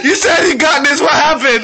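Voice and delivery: tearful laughter in the words; laughing tease. Real, not acted. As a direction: tease a friend while cracking up. Teasing friend while cracking up.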